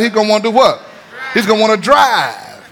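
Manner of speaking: building to a shouted answer; preacher shouts the punchline to church; preaching call. Acted. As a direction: hit drive hard for the congregation.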